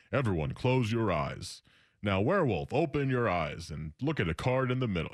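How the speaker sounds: lightly imitated app announcer; automated voice. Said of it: "a little automated voice comes on".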